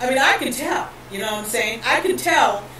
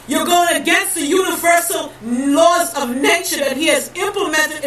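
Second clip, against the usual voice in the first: preaching hard at the lost, rising in force; fiery preaching. Acted. Preacher warning his people of God's wrath, fiery and rising. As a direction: thunder the warning like a street preacher.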